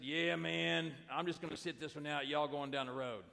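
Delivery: lightly put-on Southern accent, easygoing; a hint of a laid-back Southern accent, brushing off the invitation; casual Southern accent. Simon shrugging off his brother in a light Southern accent. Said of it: "I don't know if he spoke in that accent".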